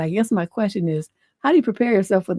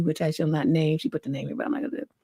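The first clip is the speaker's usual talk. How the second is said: quiet aside, voice dropping to a near whisper; hushed aside; 4 semitones lower, 7 dB quieter, faster than usual. Real, not acted. Host muttering an aside about the censored school name, hushed. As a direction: drop the voice to mutter an aside to listeners.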